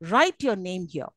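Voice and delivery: measured command with falling "here". Shown as a demonstration. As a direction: drop slowly towards "here". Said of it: "These are all the examples of falling tones".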